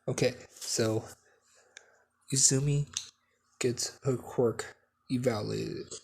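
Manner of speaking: hushed whisper. Real, not acted. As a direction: whisper so the dog stays calm. Dog calming, speaking hushed.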